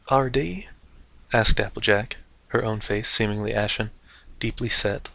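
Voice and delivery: steady, calm reading voice; story narration. A narrator's reading. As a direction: read the tale evenly. Narrating the chapter.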